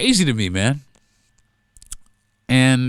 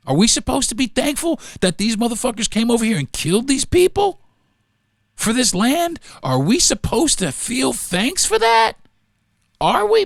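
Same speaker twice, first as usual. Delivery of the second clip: indignant outcry; 10 semitones higher than usual. Real, not acted. Indignant rhetorical questions.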